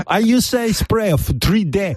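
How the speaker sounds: put-on high accented girl voice; mock ladyboy. Ladyboy boasts about setting spray, high mock voice.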